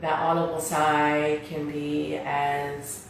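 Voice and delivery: guided meditation. Real, not acted. Leads seated breathing meditation.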